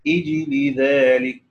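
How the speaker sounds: أجل ذلك with a kasra, "ijli dhalika"; test start. Shown as a demonstration. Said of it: "يقرأ هكذا".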